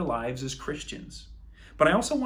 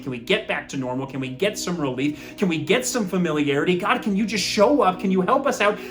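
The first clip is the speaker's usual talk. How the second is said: rising from a plea to a loud, higher cry; crying out to God; 5 semitones higher, 6 dB louder than usual. Retold or imitated. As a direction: beg God louder and louder to show up. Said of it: "crying out to God and saying".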